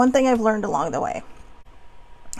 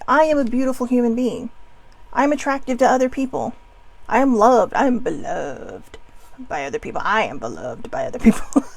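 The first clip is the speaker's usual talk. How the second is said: earnest, heartfelt affirmation; with meaning. Shown as a demonstration. Showing viewers the right way: earnest and heartfelt. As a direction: say it like you truly believe it. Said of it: "you have to say it with meaning".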